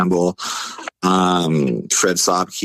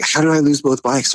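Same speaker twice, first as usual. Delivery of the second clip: higher-pitched mock dismay; retold disbelief; 8 semitones higher than usual. Driver starts pulling over, retold disbelief. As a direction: ask it high, in retold alarm. Repeats the panicked question.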